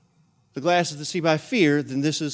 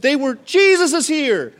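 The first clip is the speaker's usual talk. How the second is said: awed realisation; 12 semitones higher, 8 dB louder than usual. Retold or imitated. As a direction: gasp it out in wonder. Disciples recognising Jesus.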